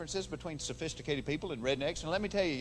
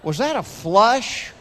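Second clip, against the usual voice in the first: brother on the phone; 6 dB louder, slower than usual. Retold or imitated. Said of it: "you hear".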